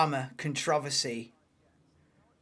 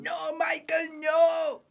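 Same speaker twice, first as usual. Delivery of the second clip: much higher anguished cry on the team radio; Toto Wolff on radio; 14 semitones higher, slower than usual. Retold or imitated. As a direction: wail it like a furious team boss. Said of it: "on team radio going".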